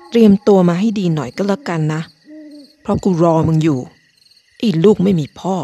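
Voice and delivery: a mild, understated snap down the phone; snapping at caller. Acted. Fed-up narrator telling off the prank caller, mildly snapping. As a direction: tell him off, but keep it restrained. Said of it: "ผมตะคอก".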